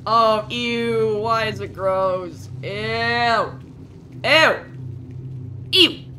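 drawn-out disgust building to loud ews; loud, stretched-out revulsion; grossed out. Real, not acted. Disgusted at gross thing in game.

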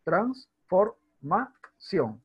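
"transformación" broken into four slow beats, trans-for-ma-ción; syllable by syllable. Shown as a demonstration. Teacher shows students four beats of voice, "transformación" syllabified slowly. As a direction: say "transformación" one syllable at a time, pausing between. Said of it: "hay cuatro golpes de voz".

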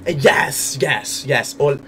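ordinary talk

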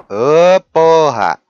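loud exasperated curse; angry shout. Real, not acted. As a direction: yell a curse. Angry outburst.

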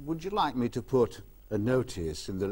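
a light take on a vicar's measured delivery; lightly voiced undertaker, stretched out. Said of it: "'cause vicars talk like this, undertakers".

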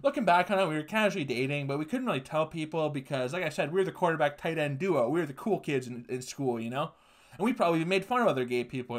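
a hint of the breezy ex-teammate; mild mock of a casual confession; gay guy quote. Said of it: "the gay guy's like".

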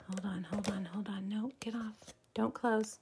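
hushed panicked whisper; flustered whisper at the glitch; urgent whisper. Real, not acted. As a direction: whisper it fast under your breath.

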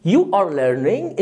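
very slow, each word spaced; slow model phrase. Shown as a demonstration. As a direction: stretch it out for the pupil. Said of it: "teacher models sentence slowly". (ببطء شديد)

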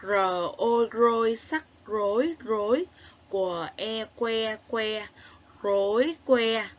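rối and que sounded out piece by piece, clearly; spelling out rối que. Shown as a demonstration. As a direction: model the spelling for children to repeat. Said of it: "đánh vần và luyện đọc theo cô".

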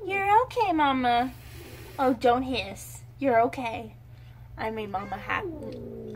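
gentle reassuring coo to a cat; calm the hissing mother cat; soothing pet talk. Real, not acted.

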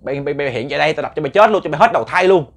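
loud furious threats at the ghosts; angry cursing. Retold or imitated. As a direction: curse them, building to a roar. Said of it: "Ông chửi".

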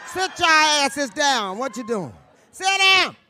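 mock furious shout, slow and loud; yelling at the crowd. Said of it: "I'm like".

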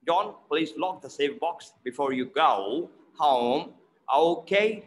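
short O in "John", "lock", "box", gliding ah-oh in "go home"; "go home" as "gah-oo hah-oom", "lock" kept short; mixed O sounds. Shown as a demonstration. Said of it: "the mixture of both".

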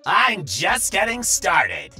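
high, loud, slow villain's roar; bellowing. Acted. Bill hides irritation from the stranger, bellowing defiantly. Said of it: "he bellowed".

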